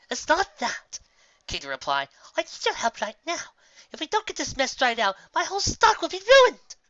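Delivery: a worried farmer begging for help; Carrot Top pleading. Acted. Carrot Top begging Raindrops for help, urgent.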